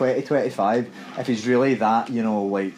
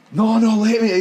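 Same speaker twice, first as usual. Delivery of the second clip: raised, louder mock yell of "let me"; retold aggressive yell; 10 semitones higher, 7 dB louder than usual. Retelling a guy in a taxi queue who wants out to fight: half-acted yell. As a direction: play the angry guy shouting to get out, higher and louder. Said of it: "he starts kicking off".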